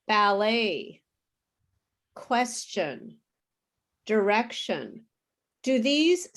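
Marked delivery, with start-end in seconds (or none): 0.1-1.0 "ballet" ending in an open "ay", T silent; "ballet" as a demo word, final T dropped. Shown as a demonstration. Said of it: "There's no sound of T". 2.1-3.2 "question" with a "ch" in the middle; "question" as a demo word, T turned to ch; no T sound. Shown as a demonstration. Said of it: "There's no sound of T". 4.0-5.0 "direction" with "sh" for the T; "direction" as a demo word, T turned to sh; no T sound. Shown as a demonstration. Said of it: "There's no sound of T".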